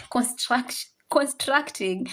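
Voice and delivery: construct with a laugh; laughing at slip. Real, not acted. Teacher laughing at her own stumble. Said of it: "My mind is thinking".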